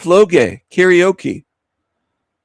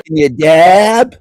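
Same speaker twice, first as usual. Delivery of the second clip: slow, louder mock hick drawl; 3 semitones higher, 5 dB louder, slower than usual. Mocking the loud woman's accent, slow hick drawl. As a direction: sneer it back in her twang. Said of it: "What kind of accent is that?".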